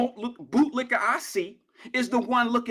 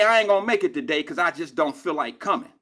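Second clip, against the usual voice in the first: lower, mock-lazy call-off; imitating a lazy employee calling in; lazy worker calling off; 6 semitones lower than usual. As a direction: drop it low like a shrugging no-show worker. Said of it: "and say".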